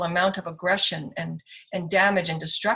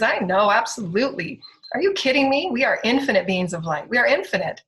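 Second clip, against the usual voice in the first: loud, rousing declaration; fired-up, incredulous affirmation; emphatic conviction; 3 semitones higher, 6 dB louder than usual. Real, not acted. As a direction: proclaim it with full conviction. Emphatic rallying declaration of power.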